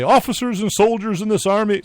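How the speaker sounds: high, loud orator's proclamation; George Washington voice. Retold or imitated. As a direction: boom it like an old general addressing troops. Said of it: "so that's how he sounded".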